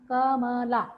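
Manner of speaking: "कमला" in separate syllables, weight on final ला; light क and म, stronger ला in कमला; stress on ला. Shown as a demonstration. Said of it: "ला में ज़्यादा". ("कमला" में ला पर बलाघात)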